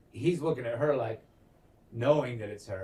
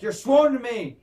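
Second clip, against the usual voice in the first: loud, high acted demand; raised, high-pitched imitation of a yell; 9 semitones higher, 8 dB louder than usual. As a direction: shout it as a queen's demand. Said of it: "even yells, and is like".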